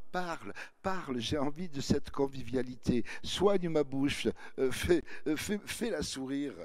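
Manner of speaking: put-on pleading girl. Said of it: "C'est la petite qui se répandit".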